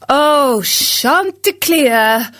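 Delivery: grieving storyteller over music; mournful narrator lament. A narrator's reading. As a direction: lament the rooster's fate like an old ballad.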